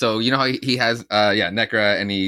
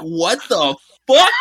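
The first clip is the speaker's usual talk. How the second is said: slow, louder, higher cry of disbelief; mock-shocked shout at the comic; shocked yell; 7 semitones higher, 6 dB louder, slower than usual. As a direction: yell it in stunned outrage. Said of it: "I was like".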